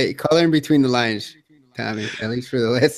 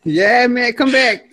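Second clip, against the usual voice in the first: mock pleading; 10 semitones higher, 4 dB louder, slower than usual. Mock pleading for returning cohost.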